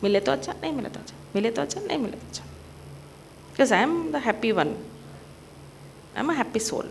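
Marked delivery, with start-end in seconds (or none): 1.3-2.4 fast, rattled-off chant; तेज़ी से मंत्र की तरह; rattled-off mantra. Shown as a demonstration. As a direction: run it off quickly like a mantra. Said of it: "what is that thing?".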